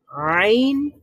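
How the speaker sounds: আইন squeezed from the middle of the throat with pressure; pressed throat sound. Shown as a demonstration. Teacher demonstrating আইন with throat pressure. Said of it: "তার মানে হচ্ছে আ sound".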